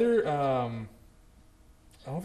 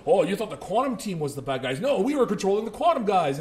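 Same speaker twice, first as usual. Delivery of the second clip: lively mock reveal, rising higher; mock gotcha; 5 semitones higher, 4 dB louder than usual. Film makers retconning their villains to the audience, mock gotcha. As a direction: imitate smug film makers correcting the audience.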